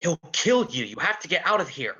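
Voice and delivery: loud, fast warning; desperate plea to flee; urgent shout. Acted.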